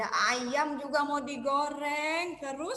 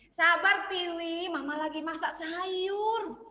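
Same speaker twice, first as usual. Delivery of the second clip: mom soothing; 3 semitones higher, 3 dB louder, slower than usual. Acted. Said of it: "Mamanya bilang gitu".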